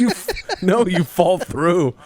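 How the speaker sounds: excited. Real, not acted. Excited game banter.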